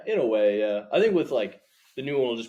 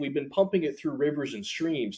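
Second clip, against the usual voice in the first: high, loud, breezy pitchman voice; cheery old-timey salesman; 6 semitones higher, 5 dB louder than usual. Retold or imitated. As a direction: sell danger like good news. Voiced 1950s oil executive.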